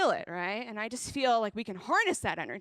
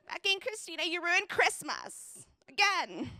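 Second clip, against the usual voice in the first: higher, slow mock scold; mock scolding sister; 6 semitones higher than usual. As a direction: drag it out like a fed-up sister. Sister scolding in retold story.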